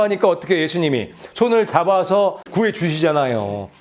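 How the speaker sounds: normal talking voice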